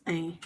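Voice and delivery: "ein" as a French nasal vowel. Shown as a demonstration. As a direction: say "ein" through the nose, French style. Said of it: "the sound is".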